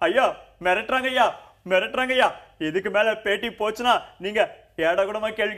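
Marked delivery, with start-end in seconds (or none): 0.1-2.3 mock plea for help. Mock complaint, crying out.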